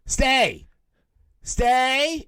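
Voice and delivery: rising high stay, stay, stay as to a dog; commanding like a dog. Retold or imitated. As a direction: order him to stay like a pet. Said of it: "points at him and goes".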